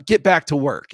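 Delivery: loud, bossy goblin order; gruff goblin voice. Retold or imitated. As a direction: bark it like a goblin foreman. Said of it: "in his gruffest goblin voice".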